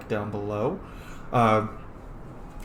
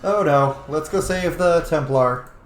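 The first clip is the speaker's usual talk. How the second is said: louder, slow alarmed oh no; alarmed rush; 3 semitones higher, 5 dB louder, slower than usual. Real, not acted. Gamer rallying to save the Templar, alarmed. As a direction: sound the alarm. Rushing to rescue.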